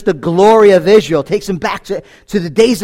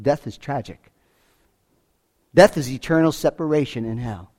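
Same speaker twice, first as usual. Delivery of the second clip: usual speaking voice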